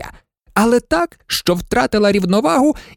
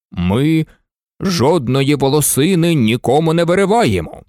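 lightly voiced stern brave; stern Indian; 3 semitones lower than usual. Indian sternly interrupts the maid, lightly voiced. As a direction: cut her off sternly. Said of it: "суворо перепинив її срібна пір'їна".

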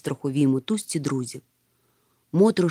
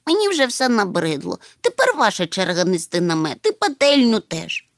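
fretful; 2 semitones higher than usual. Acted. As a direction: grumble like a fretful little one. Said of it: "Чмих почав вередувати". (вередливо, капризно)

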